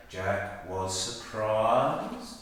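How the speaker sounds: drawn-out telling. Shown as a demonstration. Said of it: "We can say".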